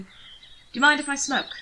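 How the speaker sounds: a hint of a smooth aristocrat offering politely; Anthony's voice.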